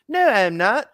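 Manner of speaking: high, loud whiny denial; Cartman. Retold or imitated. Cartman denying Kyle's accusation, in a high whiny imitation. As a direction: protest like a sneaky cartoon kid. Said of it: "Cartman is a sneaky bastard".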